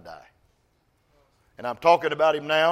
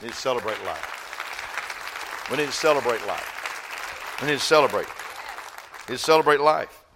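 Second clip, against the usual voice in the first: building refrain. Real, not acted. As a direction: build the line each time you say it.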